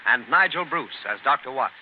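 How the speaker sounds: formal radio sponsor intro; vintage radio announcer; announcer read. Acted. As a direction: present the show, crisp and formal.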